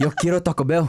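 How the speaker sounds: a light mock Taco Bell dog voice, laughing; lightly voiced cartoon Chihuahua ad line. Cohost joking the dog spoke, a light mock dog voice. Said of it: "and the Chihuahua went".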